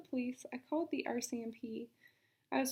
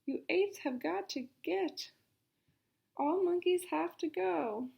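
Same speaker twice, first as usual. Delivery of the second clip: shout; 4 semitones higher than usual. Acted. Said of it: "I heard myself shout".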